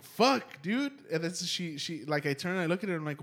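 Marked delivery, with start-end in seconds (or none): 0.0-0.9 high-pitched startled swear; retold fright. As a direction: act out being scared awake. Startled reaction to gasp, retold.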